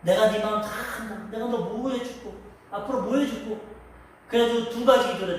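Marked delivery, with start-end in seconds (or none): 0.0-3.6 put-on a gentle Busan-accented reassurance; Busan dialect. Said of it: "부산 사투리로". (부드러운 부산 사투리)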